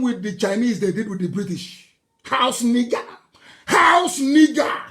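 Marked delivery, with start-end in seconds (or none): 3.7-4.8 slow, loud, shouted with a sob; shouted insult. Real, not acted. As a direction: hurl the words out slowly, near tears. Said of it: "same words repeated louder".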